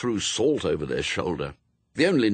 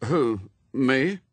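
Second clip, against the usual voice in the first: put-on higher, guilty boy's question; 5 semitones higher, 3 dB louder than usual. A narrator's reading. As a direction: play innocent while feeling caught. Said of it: "said Adam guiltily".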